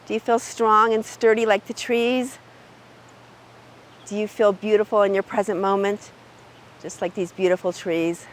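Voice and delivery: ordinary delivery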